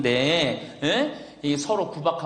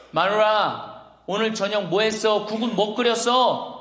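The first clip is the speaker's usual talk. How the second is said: lightly acted husband calling out, higher pitch; mildly raised, questioning call; calling to wife; 4 semitones higher than usual. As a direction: call through to the kitchen. Old man calls to wife.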